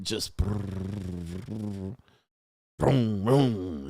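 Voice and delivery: soft low engine rumble imitation; engine purr. Describing a supercar idling, imitating its purr. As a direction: rumble it out like a purring motor. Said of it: "it's just purring".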